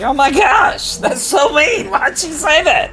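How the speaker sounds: high, hurt mock wail; whiny hurt wail. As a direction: whine it like a wounded kid. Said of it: "I was like".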